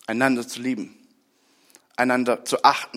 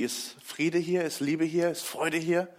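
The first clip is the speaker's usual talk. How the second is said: hushed; 7 dB quieter, slower than usual. Real, not acted. Sermon, hushed rhetorical triplet.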